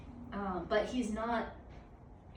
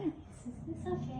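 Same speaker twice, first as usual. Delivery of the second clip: higher cutesy dog voice; voicing the dog; 7 semitones higher than usual. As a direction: speak for the dog, sweetly. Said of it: "Is he like, "It's okay"?".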